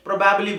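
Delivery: probably as pro-BAB-lee; common mispronunciation. Shown as a demonstration. Teacher imitating students' error, probably with a full "bab". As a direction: open "bab" in the middle of probably. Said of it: "क्या बोलते हैं?".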